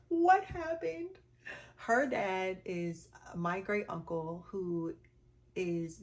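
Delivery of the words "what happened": much higher, louder and slow; alarmed question. Retold or imitated. Answering cousin crying on FaceTime, alarmed and loud. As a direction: blurt it out in alarm.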